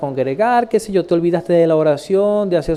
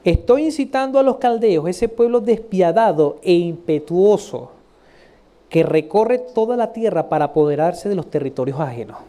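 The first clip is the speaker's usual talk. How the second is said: scripture reading. Acted. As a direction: recite deliberately, stretching the fearsome adjectives. Reads scripture aloud.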